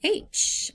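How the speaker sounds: H. as a breathy unvoiced puff; voiceless breathy H; letter H sound. Shown as a demonstration. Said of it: "focusing on the letter".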